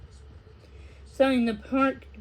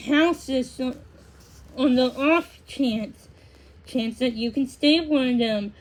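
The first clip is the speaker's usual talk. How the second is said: firm dad; 4 semitones higher, 4 dB louder than usual. Acted. Dad cutting in firmly.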